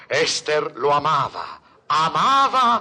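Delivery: loud, slow anguished cry; dramatic anguish. Acted. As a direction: wail the betrayal. Dramatic confession.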